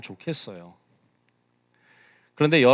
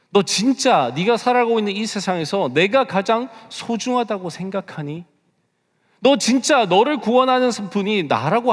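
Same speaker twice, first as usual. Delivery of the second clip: God's stern questioning; 8 semitones higher, 6 dB louder than usual. Acted. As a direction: press each question harder, rising to a shout. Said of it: "너무나 냉정하고 너무나 호되게". (호되게 추궁하며 점점 고조되는 목소리)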